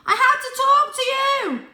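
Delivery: loud, high insistent yell; desperate shout. Acted. Cat shouts to the cars over the noise, loud and high. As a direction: force the words over the roar. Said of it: "he shouted".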